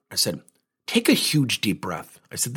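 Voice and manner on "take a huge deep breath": calm coach easing an angry client; slow calming voice. Shown as a demonstration. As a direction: talk him down slowly. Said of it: "I use voice fluctuation to my benefit".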